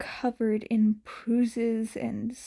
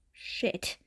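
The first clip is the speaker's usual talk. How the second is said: breathless whisper; 7 dB quieter than usual. Acted. Izuku's silent panicked thought.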